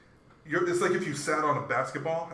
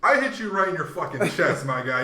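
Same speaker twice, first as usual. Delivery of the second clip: loud, raised-pitch comeback; indignant protest; 6 semitones higher, 9 dB louder than usual. Retold or imitated. Player blaming the receiver for a dropped pass, indignant protest. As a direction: argue it back forcefully, mock indignant.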